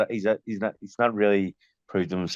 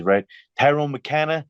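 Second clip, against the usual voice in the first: higher-pitched voice of an American official; big American man calling out a name; 8 semitones higher than usual. Retold or imitated. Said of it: "big black guy, comes out".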